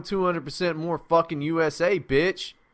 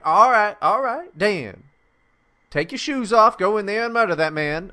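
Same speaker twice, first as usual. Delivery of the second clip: high, loud, hammed-up guard voice; TSA agents giving in; 7 semitones higher, 6 dB louder than usual. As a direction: order him in like an egging-on guard. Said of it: "And they're like".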